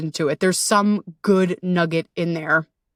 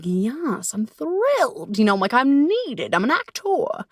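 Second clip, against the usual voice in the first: mock thrilled; 5 semitones higher, slower than usual. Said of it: "And I was like".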